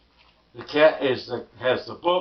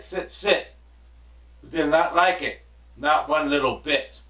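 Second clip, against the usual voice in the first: storybook read-aloud, lively and clear; reading to children; 2 semitones higher than usual. A narrator's reading. Parent reading Dr. Seuss aloud to listeners, storybook voice. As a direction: read it like bedtime story time.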